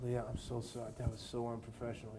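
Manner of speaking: hushed, embarrassed sorry; sheepish apology. Retold or imitated. Apologizing to Leo after ruining the take, softly. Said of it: "I was like".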